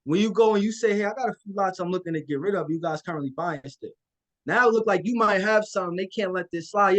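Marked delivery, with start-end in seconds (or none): 0.9-3.9 confident opener. Shown as a demonstration. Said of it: "I say it very confidently".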